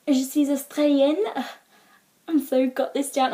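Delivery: high, hammed-up self-satisfied French; imagined confident newcomer. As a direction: show off your French playfully. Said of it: "what you imagine is, is something, like, a little like this".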